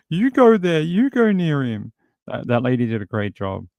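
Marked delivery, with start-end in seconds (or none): 0.1-1.9 high, loud squeaky mock cowardice; mocking timid officers. Male officers pushing the female officer forward, high scared mock voice. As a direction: push the job onto her, chickening out. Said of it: "officers are all like".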